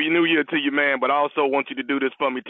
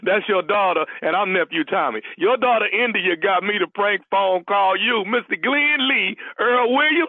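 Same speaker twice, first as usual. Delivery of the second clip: prank reveal laughing; 4 semitones higher than usual. Real, not acted. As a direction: savor the big prank reveal.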